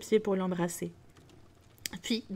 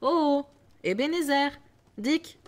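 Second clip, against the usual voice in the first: higher and louder, booming cheerful hail; sonorous jovial call; 5 semitones higher, 5 dB louder than usual. Acted. Fezziwig calling his apprentices, loud and jovial. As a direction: call the lads like a generous old master. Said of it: "d'une bonne voix sonore, onctueuse, généreuse et joviale".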